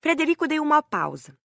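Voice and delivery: ordinary delivery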